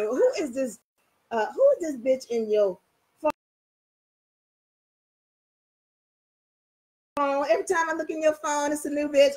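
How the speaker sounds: girlfriend in a bad mood grilling her man over his phone; aggravated and angry. Acting out a jealous partner's angry accusations, fast and pushed. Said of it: "you are just aggravated and angry".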